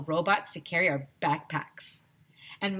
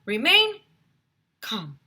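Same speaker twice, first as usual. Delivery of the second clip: high calling out; 13 semitones higher, 7 dB louder than usual. A narrator's reading. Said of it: "said Miss Sue".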